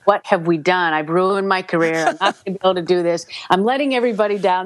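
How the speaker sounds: mild retold panic, speeding up; quickening, lightly acted panic; panicked. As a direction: rattle off the worries. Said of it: "I'm in a complete panic".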